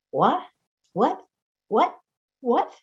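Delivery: short rising calls of What, each a chirp; quail call imitation. Speaker asks whether the quail really calls like this, chirping rising calls. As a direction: mimic the Gambel's quail calling What. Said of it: "Does the Gambel's quail sound like".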